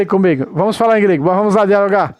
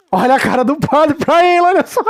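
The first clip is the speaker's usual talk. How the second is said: high, rising into a laugh; real amusement breaking into laughter; amused jeering; 6 semitones higher than usual. Real, not acted. Commentator mocking the priest's look at the pastor, amused jeering.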